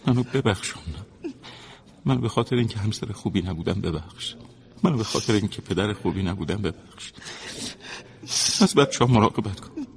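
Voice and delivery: heartfelt farewell plea, rising in force; emotional pleading. Acted. Husband asks his wife to forgive him, emotional pleading. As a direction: beg forgiveness with a swelling voice.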